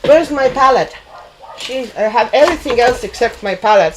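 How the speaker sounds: talking around a paintbrush; words muffled by a brush held in the teeth; brush in mouth. Real, not acted. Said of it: "Sorry, I have brush in my mouth".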